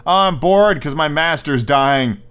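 slow, hammed-up whine of boredom; mock bored rabbit. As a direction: drag it out as a joke complaint. Ad-libbed joke as the bored rabbit.

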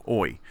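"oi" as a broad O-I diphthong; OI vowel. Shown as a demonstration. Explaining Australian vowels, "oi" as an O-I sound. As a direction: say "oi" low, rounded into a glide. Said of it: "you say it in an O I".

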